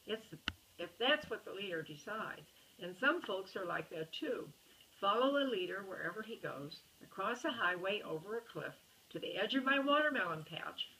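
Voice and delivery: storybook voice, characters lightly voiced; reading to a child. A narrator's reading. Parent reading a bedtime story to a child, lively storybook reading. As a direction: read the picture book aloud to a little one. Reads picture book to child.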